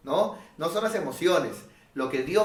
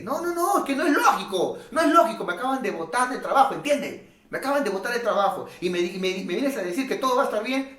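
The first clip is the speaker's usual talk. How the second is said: much higher, indignant protest; protesting skeptic; 6 semitones higher, faster than usual. Retold or imitated. Jobless man protesting to the pastor, high and indignant. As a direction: argue back, fired up.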